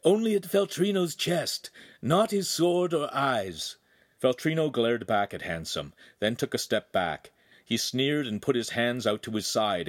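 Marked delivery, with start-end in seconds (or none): 0.0-3.8 mentor's urgent high call; urgent shout. A narrator's reading. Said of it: "Pan shouted".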